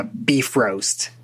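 beef roast, long ee and clear r; Icelandic Bifrost. Shown as a demonstration. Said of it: "it would be pronounced a lot closer to".

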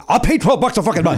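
laughing exasperated quote. Retold or imitated. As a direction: spit it out through a laugh. Mocking the repeated casino ad.

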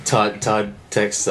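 laughing through the words; giggling while naming them. Real, not acted. Laughing at joke.

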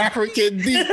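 laughing mock African accent on "Deke". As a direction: say "Deke" in a jokey African accent, so it sounds like Dick. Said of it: "Dick with an accent".

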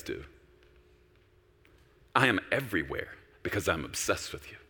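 low, soft, tender father's voice; a loving father speaking to his son; God speaks softly to the preacher. Retold or imitated. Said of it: "I just felt the Lord say".

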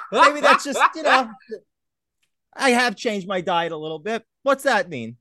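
high, giggling excuse to himself; laughing self-talk. Retold or imitated. Telling himself it's nothing, laughing. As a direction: laugh it off while making excuses. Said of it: "But I just said".

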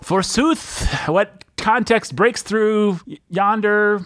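mock Shakespearean actor; hammy stage actor. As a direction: ham up old stage speech. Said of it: "Forsooth ... yonder".

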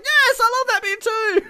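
high, laughing mock of the co-host; imitating co-host. Host mimicking the co-host's delight, laughing. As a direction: squeal it out through laughter. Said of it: "you're like".

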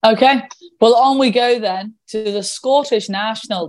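hammed-up Scottish accent introducing the race. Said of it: "that was my Scottish accent".

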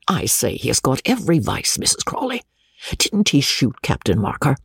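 rector's outraged ranting, with pitch jumps; a country rector fuming at his wife; exasperated rector. Acted. Exasperated rector railing against his nephew. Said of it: "continued the exasperated rector".

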